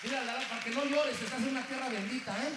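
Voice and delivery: loud fervent assurance; full-force sermon declaration; preaching shout. Real, not acted. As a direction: proclaim it out to the room. Preacher reassures crowd loudly.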